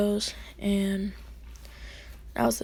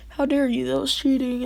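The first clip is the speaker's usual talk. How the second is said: raised, mildly indignant mock scolding; 4 semitones higher, 3 dB louder than usual. Classmates' teacher scolding him for teleporting, mildly indignant. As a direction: tell him off, lightly acted. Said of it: "so they're all scolding him".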